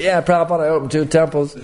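"Yeah, Prabhupada" tossed off with pride, lightly imitated; mock boastful. The disciple reporting to his guru, mock boastful. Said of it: "he didn't say".

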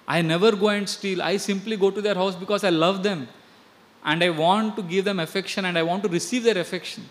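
lightly voiced innocent boy begging mother; pleading child.

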